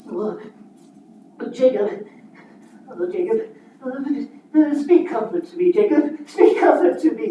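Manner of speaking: playing both parts. Scrooge pleads with Jacob.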